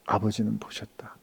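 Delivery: soft whispered promise. Retold or imitated. Jesus whispering comfort to a forgotten servant. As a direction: breathe it like a secret. Jesus voiced, tender secret.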